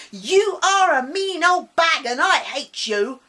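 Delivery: put-on high, loud angry child; furious scream. Boy screaming at his teacher, furious. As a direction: scream it at her in pure rage. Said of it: "he screamed at Missus Wolfbaker".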